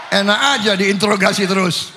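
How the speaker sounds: laughing, half-shouted complaint; playful protest through laughter. Real, not acted. Joking protest at being grilled. (protes sambil tertawa)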